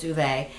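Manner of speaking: Uwe said "OO-vay"; agreed pronunciation. Shown as a demonstration. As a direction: say Uwe with oo first, then vay. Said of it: "I think it's".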